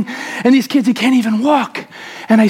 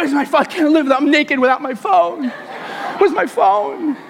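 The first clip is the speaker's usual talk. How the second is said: panicked search; 3 semitones higher than usual. Retold or imitated.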